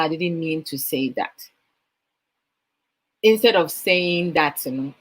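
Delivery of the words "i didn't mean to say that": soft apology. Retold or imitated. Quoting a typical apology.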